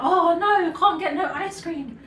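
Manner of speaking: laughing, hammed-up oh no; mock disappointment. Kids told there's no money, laughing mock disappointment. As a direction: play a kid's fake dismay through a laugh. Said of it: "we'd be like".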